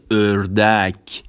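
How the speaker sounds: "اردک" slow, as ördek with rounded ö; Turkish ö demo. Shown as a demonstration. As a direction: stretch "اردک" as ör-dek.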